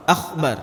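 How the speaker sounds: Akbar said as akhbar with a throaty kh; wrong akhbar. Shown as a demonstration. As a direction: rasp the k into kh. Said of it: "Jauh sekali maknanya akhbar".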